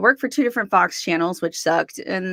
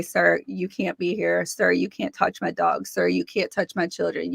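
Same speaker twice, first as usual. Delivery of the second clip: softer, measured and respectful; polite firmness; 5 dB quieter than usual. Retold or imitated. Politely telling the intruder off, soft. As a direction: calmly set the rules. Quoted polite address to apparition.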